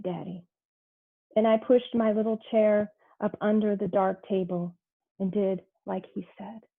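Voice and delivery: measured, unhurried poem recital; poetry reading. Acted. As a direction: let each image land with its pause. Poem read aloud.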